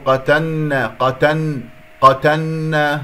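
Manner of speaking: قتلنا as qatanna, l swallowed into a doubled n; wrong merged lam. Shown as a demonstration. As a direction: drop the l of قتلنا into the n. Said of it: "من يدغمها في النون".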